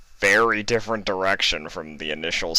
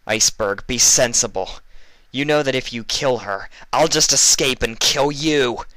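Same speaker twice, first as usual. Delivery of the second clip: higher, louder warning; urgent threat; 7 semitones higher, 6 dB louder than usual. Acted. Vinyl threatening Iceberg to save Fluttershy. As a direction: warn him hotly.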